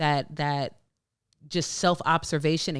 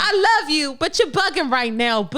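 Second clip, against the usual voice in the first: playful sassy scolding; 9 semitones higher, 4 dB louder than usual. Pretend. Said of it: "what you say".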